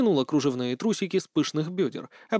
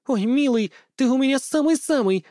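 laughing; 11 semitones higher, 4 dB louder than usual. A narrator's reading. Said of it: "захохотала Пён".

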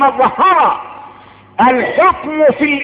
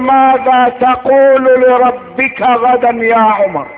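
sustained declaimed question, falling at the end; solemn preaching. Acted. First take of Umar's night question.

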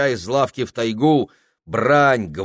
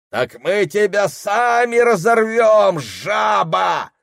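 high, loud, slow menacing yell; threatening shout; 11 semitones higher, 5 dB louder, slower than usual. Acted. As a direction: threaten him outright.

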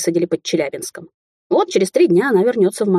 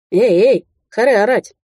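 uncle cuts her off, raised and louder; sharp rebuke; 4 semitones higher, 3 dB louder than usual. A narrator's reading. Uncle Kolya snapping at the quarrelling couple, loud. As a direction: bark at them to stop shouting. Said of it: "осадил её дядя Коля".

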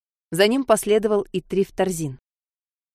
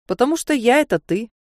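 inner voice answering; 6 semitones higher than usual. A narrator's reading. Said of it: "ответил голос".

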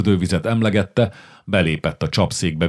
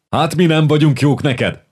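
mock-offended, higher and louder; indignant; 8 semitones higher, 4 dB louder than usual. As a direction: act wounded pride, half joking. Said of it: "méltatlankodott Kamonyai Simon".

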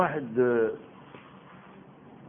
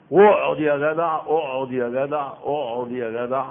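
mock lulling refrain; 3 semitones lower than usual. Preacher mocks the devil's coaxing, fading to a drone. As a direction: drift from a firm urge into a sleepy drone. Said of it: "كلام الأبلسة".

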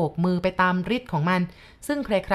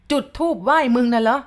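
angry retort; 5 semitones higher, 5 dB louder than usual. A narrator's reading. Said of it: "ตาร้องถามอย่างอารมณ์โกรธขึ้นแล้ว".

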